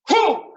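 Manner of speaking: loud, high "whoo" burst; sharp martial-arts breath shout; explosive strike exhale. Shown as a demonstration. Instructor driving an intense strike drill, explosive shout.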